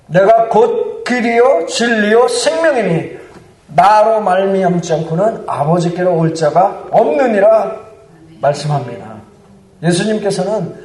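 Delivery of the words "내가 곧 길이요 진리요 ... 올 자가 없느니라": firm, emphatic scripture recitation; resolute proclamation. Acted. Preacher quoting John's gospel to the congregation, resolute declaration. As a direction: declare the verse with authority. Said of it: "단호하게 선포합니다".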